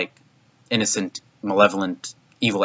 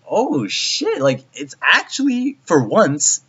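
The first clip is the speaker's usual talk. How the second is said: much higher, thrilled reaction; hyped, slowing on the last words; delighted fan reaction; excited; 10 semitones higher, slower than usual. Retold or imitated. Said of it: "and I was just like".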